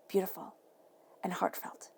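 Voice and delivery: soft whisper on heartfelt. Real, not acted. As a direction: breathe the words out gently. Tender tarot reading aside.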